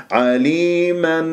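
عليما drawn slowly, ending on a clear n; clear izhar. Shown as a demonstration. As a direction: recite عليما with the tanween plainly sounded. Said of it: "اسمعوا الإظهار". (عليما بإظهار التنوين)

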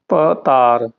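ਪਤਾਰ with first syllable broken off from ਤਾਰ; split first syllable. Shown as a demonstration. Teacher models the word, ਪਤਾਰ in two clear parts. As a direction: separate the first sound, then say ਤਾਰ. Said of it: "ਭੱਬੇ ਤੋਂ ਤੋੜ ਕੇ".

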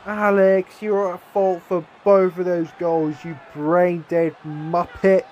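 furious scolding, last words slow; angry rant. Real, not acted. Gamer blaming his player for both goals, angry shout. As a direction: tear into the defender.

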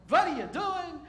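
high, loud retake; a hint of Moses' accent, punched on what; Moses with that accent. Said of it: "Probably with that accent".

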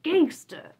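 fed up and yelling at the monk; a man mocking the monk's cryptic answers, loud and exasperated; exasperated rant. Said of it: "the man gets pissed".

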